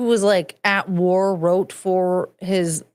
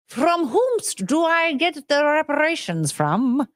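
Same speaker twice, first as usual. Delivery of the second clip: slow, higher, drawn-out mock inquiry; mock-formal questioning; 6 semitones higher, slower than usual. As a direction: ask with exaggerated, deliberate pomp. Mock-formal repeat of her question.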